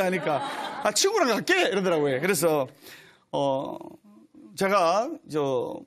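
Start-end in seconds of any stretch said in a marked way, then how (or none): 0.8-1.6 높게 올린 목소리로 신도 흉내; 높은 목소리로 가볍게 따라 하기. Retold or imitated. 신도의 대답을 흉내. (높은 목소리로 흉내 낸 신도 대답)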